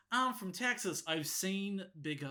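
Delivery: lightly mocked Texas accent; a hint of Texas twang; Southern accent. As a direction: imitate a Southern girl's one-liner. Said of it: "Kelly in a southern accent goes".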